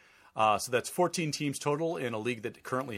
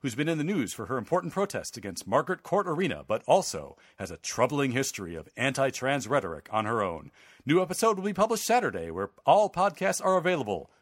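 announcer voice. Acted. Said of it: "I put in my announcer voice".

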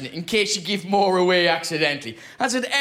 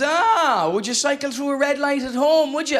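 knowing policeman; 6 semitones higher than usual. Acted. Policeman questioning an Irish cyclist at night, mock-knowing. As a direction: play the officer catching someone out. Officer pounces on hearing the accent.

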